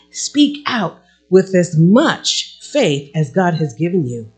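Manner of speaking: measured, lifted Bible reading; scripture reading. Acted. Pastor reading Romans to the congregation, measured. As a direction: read the verses with conviction.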